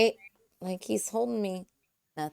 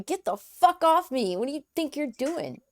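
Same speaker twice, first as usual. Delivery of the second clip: raised, higher-pitched outraged yell, half in play; mock screaming protest; 6 semitones higher, 4 dB louder than usual. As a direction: act out screaming at someone to get off. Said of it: "I can just start screaming".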